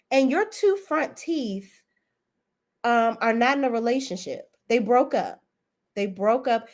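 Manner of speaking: roast him like a host at the mic; mock speech into a mic. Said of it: "I said".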